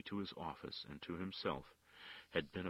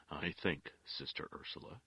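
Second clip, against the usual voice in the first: gentle. Acted. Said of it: "he said gently".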